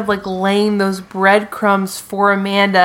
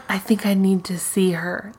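quiet, emotionless imitation; mock impassive man; stone cold; 6 dB quieter than usual. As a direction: deliver it with a nothing face, softly. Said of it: "stone cold, just, like, nothing face".

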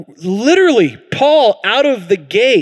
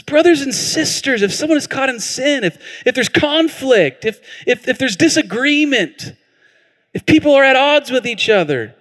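gentle reading; 7 semitones higher than usual. Shown as a demonstration. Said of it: "He says gently".

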